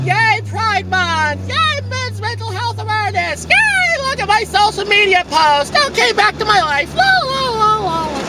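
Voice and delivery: squeaky sarcastic cheerleader voice; mocking performative ally. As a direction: play a shallow flag-waver, gushing and empty. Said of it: "we love to wave around the community flags going".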